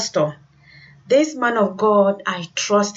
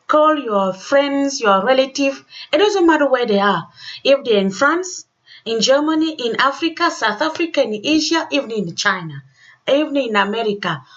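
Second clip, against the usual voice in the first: excited urging; 4 semitones higher than usual. Real, not acted. Host urging listeners to call.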